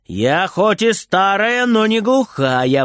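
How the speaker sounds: slow grumpy retort; grumbling. Acted. Grandma grumbling back at Frieder. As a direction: grumble it back, a bit slowly. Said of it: "ворчит бабушка".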